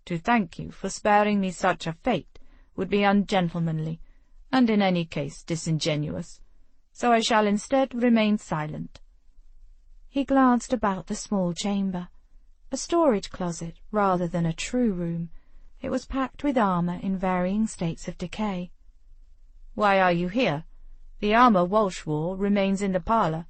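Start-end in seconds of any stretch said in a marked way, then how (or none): 0.1-9.0 dry lord. Acted. Lord Vitor voiced by narrator. 19.7-23.5 dry lord. Acted. Lord Vitor voiced by narrator.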